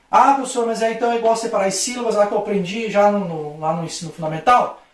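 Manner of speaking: mock pupil asking the teacher; pupil's question. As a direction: quote a student interrupting with a doubt.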